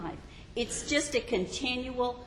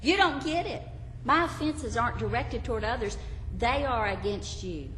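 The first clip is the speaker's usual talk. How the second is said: anxious confessor; 3 semitones higher than usual. Acted. Believer pleads.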